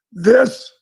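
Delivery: a sudden whispered word, leaning in close. Retold or imitated. Coach confides in quarterback before coin toss, whispering. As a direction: drop to a whisper to stress it.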